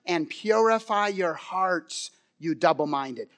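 slow, weighted reading of scripture; solemn scripture plea; passionate plea. Retold or imitated. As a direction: plead each phrase slowly. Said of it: "he cries out with such passion".

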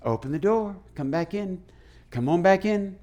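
softly coaxing someone back inside; quiet invitation. Acted. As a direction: play a hushed, furtive welcome. Acting out letting the buddy in.

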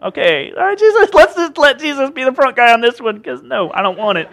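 comic reluctance, starting high and settling down; reluctant disciples. Acted. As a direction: play disciples wanting no part of it. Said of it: "disciples take a step back".

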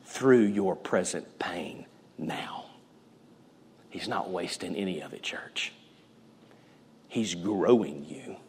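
hushed preacher's whisper. Real, not acted. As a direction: drop to a breathy hush for the church.

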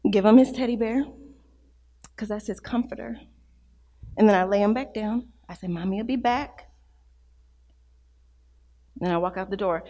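hushed tender storytelling. Real, not acted. Mother recalls leaving her crying child, hushed and tender. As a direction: tell it gently, almost under the breath.

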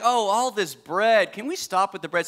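mock whine about the bread; whiny complaint. Preacher mocking Israelites complaining about manna. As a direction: sound fed up and spoiled. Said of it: "They're like".

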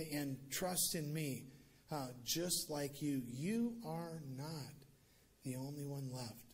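slow, tender reassurance; slow reassuring. Acted. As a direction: gently stress you are not alone. God reassuring Elijah.

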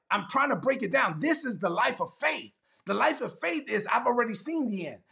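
impassioned preacher in a rolling cadence; fervent preaching. Real, not acted. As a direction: drive the point home phrase by phrase. Preaches with mounting fervour.

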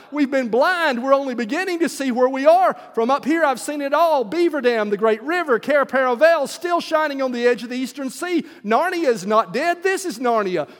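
high, eager, proclaiming; excited cry. Acted. Eagle telling the children what he has seen, high excited cry. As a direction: tell them the news with rising joy. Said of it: "he cried".

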